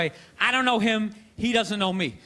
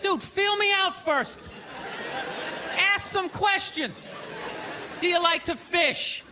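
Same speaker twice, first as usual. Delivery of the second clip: high, slow, exasperated coaching; mock advice; 4 semitones higher than usual. Comedian advising the bar dude, slow and exasperated. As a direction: spell it out to the racist slowly. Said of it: "it's like".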